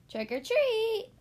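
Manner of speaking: high, loud, slow trick-or-treat cry; excited call. A narrator's reading. Duck calls up to the squirrel, excited call. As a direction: sing it out with glee. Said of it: "quacked Duck".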